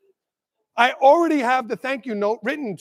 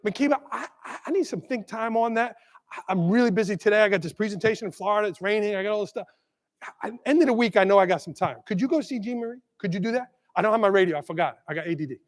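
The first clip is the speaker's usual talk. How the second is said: quiet, quick, apologetic excuses; a touch of gentle rambling; softer, kinder put-off; 2 semitones lower, 6 dB quieter, faster than usual. Shown as a demonstration. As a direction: let her down gently. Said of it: "Honor their idea".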